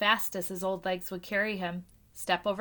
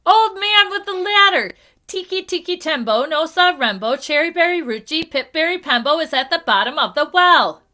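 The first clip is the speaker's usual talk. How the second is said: very high, loud, last-breath shout; 6 semitones higher, 8 dB louder than usual. A narrator's reading. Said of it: "he shouted".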